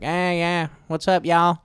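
mock Southern US twang on a greeting; southern accent. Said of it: "I used to have this southern accent".

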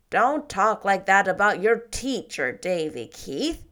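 severe. Acted. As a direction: scold the boy firmly as Marilla. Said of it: "said Marilla severely".

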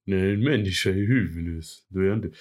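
lightly done Stockholm cop voice; a hint of a gruff Stockholm detective; Stockholm accent. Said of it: "jag kan härma en Stockholmsdialekt".

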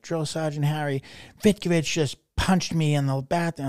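loud, high-pitched tattling; mock complaint called out to a sergeant; retold indignant report.

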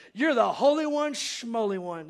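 a light taunt, the second half tossed off dismissively; mocking. Pastor voicing the demon taunting Jesus, mild mocking tone. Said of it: "Mocking him".

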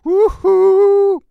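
loud, very high whoop; a loud happy whoop of delight; excited whoop. Real, not acted. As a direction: cheer it out with big joy. Cheering at the song.

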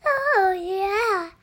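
a light put-on version of yourself; own voice, demonstrated. Child showing dad how she talks, playful self-imitation. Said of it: "And I talk like this".

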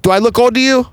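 high, loud mock offended lady. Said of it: "And she was like".

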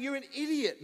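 high, exasperated inner voice; self-scolding. Retold or imitated. Passenger regretting his friendliness, scolding himself.

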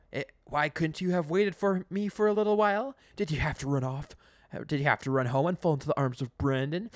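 hammed-up jealous outburst peaking in a shout; building rant. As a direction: work up to a loud yell. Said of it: "Eugene yells".

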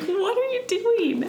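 high, disbelieving question; can't believe what she's seeing; incredulous. Retold or imitated. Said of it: "I was like".

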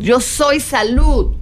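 yo soy salud drawn out slowly, each word weighed; slow affirmation. Shown as a demonstration. Teacher demonstrating an affirmation to her students, slow and deliberate. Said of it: "hazte una serie de afirmaciones".

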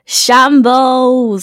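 loud, falling verdict; loud exclaim. Acted. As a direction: declare it loudly and firmly. One-word verdict, two takes.

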